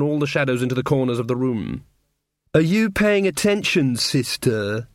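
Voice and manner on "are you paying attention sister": cold. Acted. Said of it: "said Diamanda coldly".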